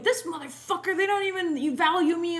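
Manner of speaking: imitating your own angry grumbling; mock angry venting. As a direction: act out an irritated rant, half in jest. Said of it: "angry and I'm like".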